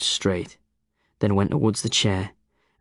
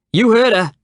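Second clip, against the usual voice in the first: high, loud call; 14 semitones higher, 9 dB louder than usual. A narrator's reading. Tom pressing the old man, calling out. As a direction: call it out triumphantly. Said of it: "called Tom".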